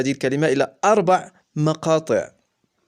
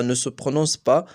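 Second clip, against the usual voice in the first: slow repeat; slower than usual. Shown as a demonstration.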